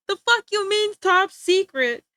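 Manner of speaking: high, loud, incredulous comeback; hammed-up indignant challenge; mock outrage. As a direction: drag the last words out in loud disbelief. Acted outraged reply in imagined argument.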